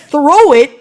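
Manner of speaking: high, agitated frustrated rant; exasperated rant. Retold or imitated. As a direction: pitch it up and vent at the guard. Ranting about the hairspray.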